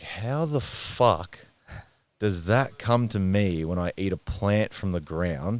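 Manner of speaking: slow, stretched-out disbelief; incredulous. Retold or imitated. Trip-taker wonders how that came from a plant, incredulous. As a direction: drag it out, pitch lifted at the start, mildly baffled. Baffled retelling of his own reaction.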